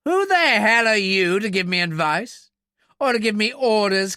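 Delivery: loud, high, outraged challenge; indignant anger. Acted. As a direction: round on him, affronted. Officer bristles at being given orders.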